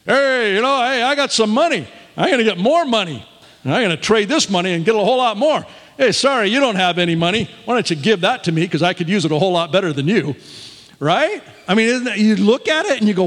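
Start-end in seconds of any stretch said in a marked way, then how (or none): 0.0-10.3 fast, eager get-rich-quick pitch; mocking a money-grabbing misreading of scripture; greedy hustler. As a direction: rattle it off like a greedy schemer. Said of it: "get rich quick?".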